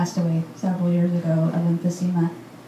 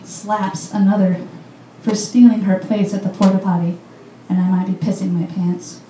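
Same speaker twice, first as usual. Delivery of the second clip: louder, emphatic poem recital; poetry reading; 4 dB louder than usual. Acted. Poet reading The Myth of Baltimore to listeners, emphatic recital. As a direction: project each line to the room in measured phrases.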